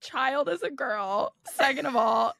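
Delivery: mock exasperated telling-off; imitating annoyed mom. Mom shooing a stray dirty kid, mock exasperation. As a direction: list objections like a fed-up mother. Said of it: "Mom would get so annoyed".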